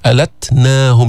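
ت in ألتناهم stopped, then released with a puff; shidda then hams. Shown as a demonstration. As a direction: chant ألتناهم, closing on ت before letting air out. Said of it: "جيب الشدة بالتاء بعدين الهمس". (شدة ثم همس على تاء ألتناهم)

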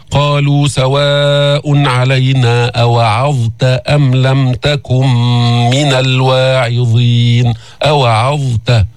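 slow measured chant; تلاوة مرتلة; Quran recitation. Shown as a demonstration. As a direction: recite with tajwid, unhurried. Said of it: "أوعظت بسورة الشعراء".

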